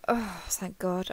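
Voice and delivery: slow sigh of relief; relieved. Acted. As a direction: let the worry out on a long breath. Relief at the answer.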